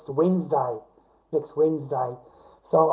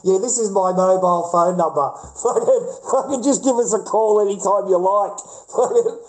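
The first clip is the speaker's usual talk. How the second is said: sarcastic laughing; 6 semitones higher, 6 dB louder than usual. Pretend. Sarcastic fake offer of his number.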